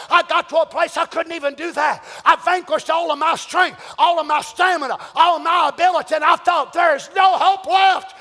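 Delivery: preacher voicing Paul, building; Paul at his limit. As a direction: pile the phrases up toward despair. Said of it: "Paul said".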